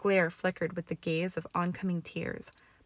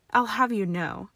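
angry; 4 semitones higher, 7 dB louder than usual. Acted. Draco cuts in angrily.

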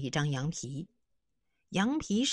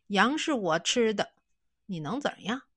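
blunt defiance; 3 semitones higher, 3 dB louder than usual. Acted. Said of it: "干脆一拉脸".

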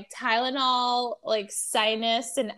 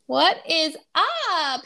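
drawn-out greeting; 6 semitones higher, 5 dB louder, much slower than usual. Real, not acted.

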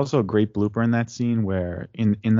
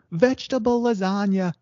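repeating it; 10 semitones higher than usual. Retold or imitated.

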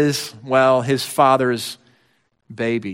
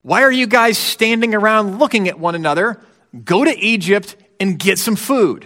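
a firm dad rallying his sons, slightly louder and higher; urgent father; 4 semitones higher, 3 dB louder than usual. Retold or imitated. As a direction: push the sons out the door. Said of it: "Dad looking at the sons and saying".

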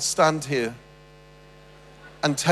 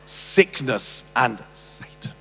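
lower, slow, grand revivalist call; solemn mock sermon with drawn-out pauses; mock preacher; 3 semitones lower, slower than usual. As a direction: play the showman preacher working the crowd. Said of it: "the famous Christian leader came up".

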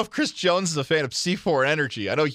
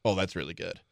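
retold wife reaction; 9 semitones lower, 6 dB quieter than usual. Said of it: "She's like".

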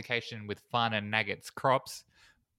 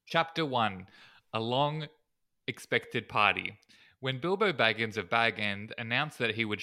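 measured, formal chapter reading; storybook narration. Acted. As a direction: read it out like a solemn audiobook. Reads a book-like synopsis aloud.

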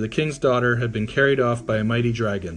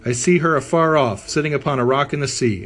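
cried out; 3 semitones higher, 4 dB louder than usual. Acted. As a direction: call out the sighting eagerly. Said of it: "soon cried out".

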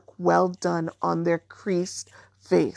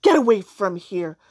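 through gritted teeth; 5 dB louder than usual. Acted. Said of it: "through gritted teeth".

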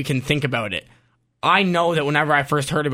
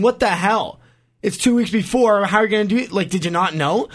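higher, disbelieving "what the hell" rant; incredulous outburst; 6 semitones higher than usual. Retold or imitated. Host reliving his reaction to the retirement, incredulous and higher. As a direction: replay the shock of hearing the news.

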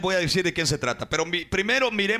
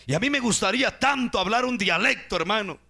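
fiery preaching; 3 semitones higher than usual. Acted. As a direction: preach it out at full force, pitch climbing. Preacher's rising exhortation.

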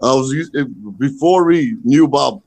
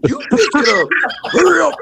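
retold bickering; 10 semitones higher, faster than usual. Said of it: "And I'm like".

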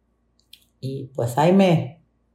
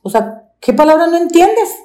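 much higher, sneering "entiendes" with a rising end; scornful boss; 10 semitones higher, 4 dB louder than usual. Retold or imitated. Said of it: "por eso le digo". (la patrona burlona, subiendo en "entiendes")

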